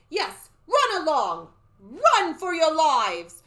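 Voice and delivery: high, loud, drawn-out eerie warning; slow, ominous cry; raspy hissing soothsayer. A narrator's reading. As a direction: warn them like a creepy old seer. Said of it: "came a raspy, hissing voice".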